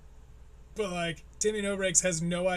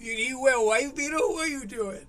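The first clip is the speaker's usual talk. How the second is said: higher-pitched lisping mock of the comic; mocking a comic's impediment, higher-pitched; speech impediment mock; 6 semitones higher, 3 dB louder than usual. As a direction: squeak out "What are you doing?" like a nervous kid. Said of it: "cute little speech impediments".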